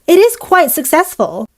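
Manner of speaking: lisping with a retainer in; talking around a dental retainer. Real, not acted. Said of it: "I can't say successful with my retainer in".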